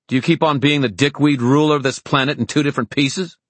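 high cheeky mockery; taunting. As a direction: poke fun at the tyrant. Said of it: "Emma taunted".

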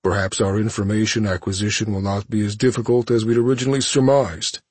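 measured imperious villain; cold villain voice. Acted. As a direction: speak down to a captive. Thanos plans torture.

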